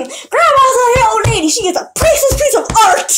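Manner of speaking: high-pitched mock scream; retold scream. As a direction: yell it in hammed-up indignant defence. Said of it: "So I started screaming".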